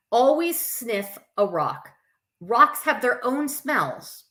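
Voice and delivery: put-on lively read-aloud to children; story reading. A narrator's reading. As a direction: read it to a circle of kids. Reads picture book aloud.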